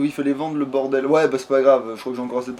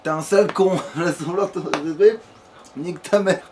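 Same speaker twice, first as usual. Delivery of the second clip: mock insults; 3 semitones higher than usual. Player trash-talking a game character, mock insults. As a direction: hurl insults through a laugh.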